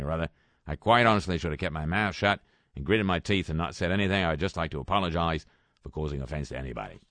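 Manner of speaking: a light imitation of an Australian accent, mostly in his own voice. Host reads Rolf Harris's apology aloud in a mild Australian accent. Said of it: "That's his accent".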